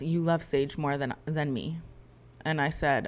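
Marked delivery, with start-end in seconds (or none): none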